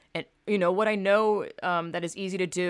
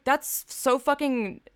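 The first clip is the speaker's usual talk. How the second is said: slow offended complaint; 3 semitones higher, slower than usual. Retold or imitated. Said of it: "I'm like".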